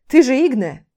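громко и выше, мужской голос; спроси с хитрым расчётом; бодрый парень. Acted. Рейвен спрашивает героиню. (лёгкий напор в вопросе)

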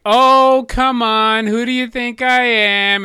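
high, loud easygoing brother voice; mock amiable brother. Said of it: "He would be like".

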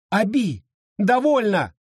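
high, urgent cry; exclaimed. A narrator's reading. Edward begs his wife to stop, crying out. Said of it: "вскричал Эдвард".

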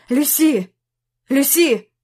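trying to wake her, frightened; anxious calling. Acted. Jack calls the unconscious Lucy. (тревожно зовёт)

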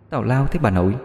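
eerie echo from inside the wardrobe; girl's voice echoing. Acted. Ghostly girl's voice mimics Minh from the wardrobe. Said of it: "cái giọng con gái ... nói y chang".

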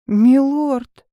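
loud, urgent call; alarmed call. Acted. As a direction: call him back in alarm. Heroine calls out in alarm.

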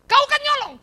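high, loud laughing jab; laughing accusation. Retold or imitated. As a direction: tease through a laugh. (tuduhan sambil tertawa)

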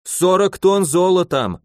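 almost cry out the sum; a husband's horrified half-wail; near wail. A narrator's reading. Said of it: "чуть ли не возопили в ответ".

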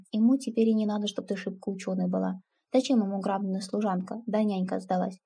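ordinary delivery, nothing marked

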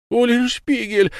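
a high, drawn-out plaintive howl of a name; plaintive wail. A narrator's reading. Lamme wails for his lost friend, plaintive and slow. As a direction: wail it slowly, calling for help. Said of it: "жалобно взвыл Лама".

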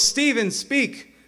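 very high, loud, drawn-out cry; slow, ringing showman's command; faith healer command. Acted. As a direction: order the miracle to happen. Acting healer's command to stutterer.

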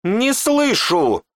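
very high, very slow demanding shout; demanding yell. Acted. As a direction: force the answer out of him.

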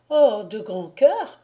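a joyful exclamation of consent; eager cry. A narrator's reading. Girl gladly accepting the baron's bargain, eager cry. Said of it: "s'écria la jeune fille".

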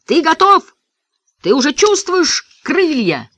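high, excited asking; called-out question. A narrator's reading. Boy asking Davy Ray about his wings, eager high shout. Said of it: "крикнул я".

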